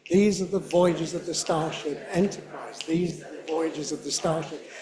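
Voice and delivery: match the fast native pace; at his speed. Shown as a demonstration. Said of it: "can you do it at his speed".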